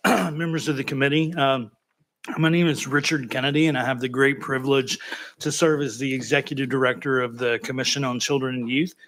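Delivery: slightly thick speech after dental surgery; talking like marbles in the mouth. Real, not acted. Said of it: "feel like I'm speaking with marbles in my mouth".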